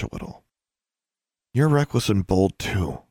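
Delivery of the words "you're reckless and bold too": softly. Acted. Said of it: "she said softly".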